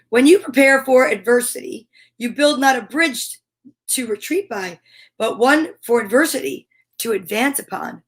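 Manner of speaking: measured inspirational reading; reading aloud. Acted. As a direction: read it like a gentle lesson. Reads book passage.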